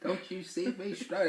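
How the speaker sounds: high-pitched laughing mock yell; teasing imitation of the wife yelling. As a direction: imitate her shrill yell through a laugh. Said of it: "She yelling".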